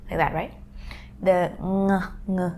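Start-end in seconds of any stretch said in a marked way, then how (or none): 1.6-2.5 "ng" as a syllable onset, Thai style; Thai ng sound. Shown as a demonstration. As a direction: start the syllable on a nasal "ng". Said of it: "in Thai".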